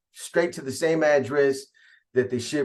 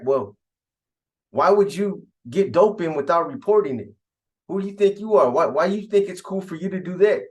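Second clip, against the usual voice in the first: higher-pitched retold dressing-down; acted scolding; 4 semitones higher than usual. Contact men confront Pelon over unreported dope, indignant mock scolding. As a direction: challenge him like an enforcer, in a mild imitation.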